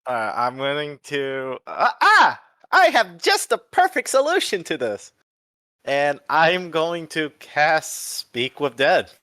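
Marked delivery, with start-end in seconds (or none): 2.0-5.1 dramatic game master voice. Acted. GM voicing dramatic announcement.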